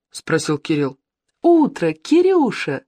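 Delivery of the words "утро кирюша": high, excited wake-up call; acted yelling. A narrator's reading. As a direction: holler it high to a sleepy friend. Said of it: "заорала Ира". (звонко орёт, будит друга)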